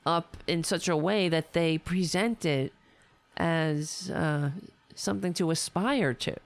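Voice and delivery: hoarse, tired voice; voice giving out. Real, not acted. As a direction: voice fading and strained. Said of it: "I'm losing my voice, as you can hear".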